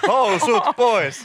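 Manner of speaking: loud, very slow, laughing call; rowdy hen party calling for clothes off; mock cheer. Mock crowd cheering strippers.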